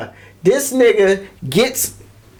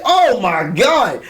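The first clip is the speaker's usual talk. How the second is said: shocked; 3 semitones higher, much slower than usual. Retold or imitated. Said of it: "I was like".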